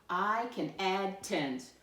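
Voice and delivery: slow, measured read-aloud; slow model reading. Shown as a demonstration. Teacher reads the I can statement first, slow model reading. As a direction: read it out at half speed, evenly. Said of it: "let me read the I can statement".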